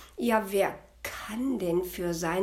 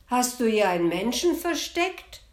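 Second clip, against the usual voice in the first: loud, higher suspicious demand; devil voice; 5 semitones higher, 7 dB louder than usual. Acted. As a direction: sniff out the intruder angrily. Devil sniffs for humans.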